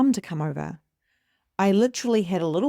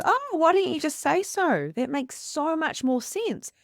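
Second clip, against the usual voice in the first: husband's relieved reply; 8 semitones higher than usual. Retold or imitated. Husband relieved once told the truth.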